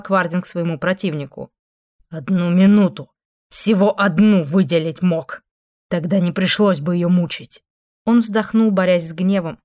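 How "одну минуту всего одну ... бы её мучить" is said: angry. Acted. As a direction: scold him, barely holding back rage. Demon rebukes angel over woman.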